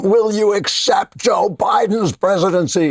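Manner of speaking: high, slow mock shout of a pushy reporter; mock hectoring question. Mocking MSNBC reporter haranguing senators, shouted high and slow. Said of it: "haranguing senators to accept, like, torture them".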